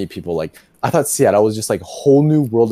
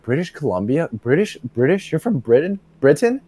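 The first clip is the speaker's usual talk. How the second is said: retold puzzlement; 3 semitones higher than usual. Intern questioning his friend's university, puzzled. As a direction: query it in mock confusion, climbing to the last word. Retold confusion over British Columbia.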